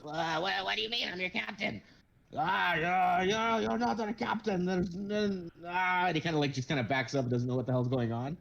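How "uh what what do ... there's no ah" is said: higher, self-important little captain; pompous kobold captain. Acted. Kobold captain boasting to the crew, high and pompous. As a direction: puff up like a tiny captain in a big hat. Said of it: "He goes".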